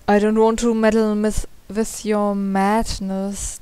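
halting, tripping over the words; stammering. Pretend. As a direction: stumble through the line. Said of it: "I'm stammering".

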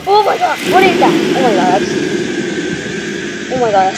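panicked loud exclaiming; scared horror game streamer. Real, not acted. Jump scare, gasped first.

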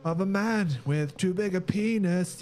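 hammed-up high. Mock grand delivery.

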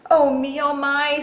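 high, loud panicked voice; frightened Square. Acted. Square hearing a snake at the door, frightened cry. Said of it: "Square was afraid of snakes".

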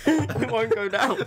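laughing. Real, not acted. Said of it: "Earthworm juice in my eye".

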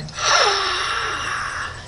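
long, high mock gasp; awestruck gasp. Diver acting out seeing a hammerhead appear, awestruck gasp. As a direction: draw in a long, amazed gasp.

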